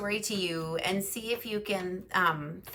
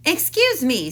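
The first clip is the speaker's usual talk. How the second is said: higher, louder polite little mouse; mouse interrupting; 8 semitones higher, 8 dB louder than usual. Acted. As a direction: cut in as the mouse. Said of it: "said Mister Mouse".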